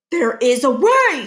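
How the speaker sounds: slow, determined inner voice; resolved principal. Acted. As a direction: let the idea dawn. Barkin scheming.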